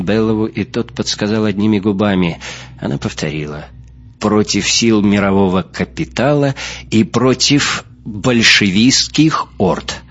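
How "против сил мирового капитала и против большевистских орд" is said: measured declamation, slowing on the last words; declaimed slogan. Acted. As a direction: recite it like a prompted political slogan. Повторяет подсказанный лозунг о войне.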